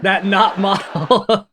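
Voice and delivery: slow, drawn-out "not model" with stress on not; mock shade. Streamer relishing the friend's shady insult, slow and teasing. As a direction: savor the insult slowly. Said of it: "That little".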